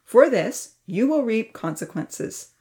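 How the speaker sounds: stern verdict; firm. Acted. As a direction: set the rules with no room to argue. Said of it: "said firmly".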